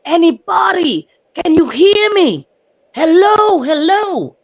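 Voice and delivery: high, loud calls up the stairs; shouting up. Retold or imitated. Neighbor shouting up through the smoke, loud and urgent. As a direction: call out loud to anyone upstairs. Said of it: "and I'm screaming".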